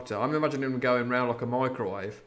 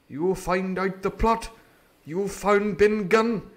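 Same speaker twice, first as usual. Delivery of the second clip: slow, emphatic praise rising louder; grateful doctor; 8 semitones higher, 8 dB louder, slower than usual. Acted. Doctor praises Jim's deeds, slow and emphatic. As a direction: lay it on with warm admiration.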